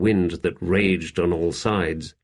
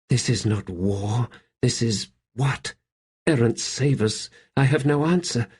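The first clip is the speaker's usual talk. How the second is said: Seren's thoughts, a touch higher, sickened; lightly voiced horror, brooding; anguished inner voice; 5 semitones higher than usual. Seren reflecting in horror on the slaughter, lightly voiced anguish.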